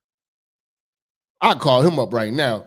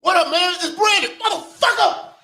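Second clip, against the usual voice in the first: mock greeting; 13 semitones higher than usual. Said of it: "Next nigga to say something to me".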